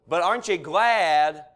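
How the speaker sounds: loud, rousing rhetorical question; fervent preaching. Real, not acted. Preacher asks church if they're glad of victory, fervent. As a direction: press the congregation to rejoice.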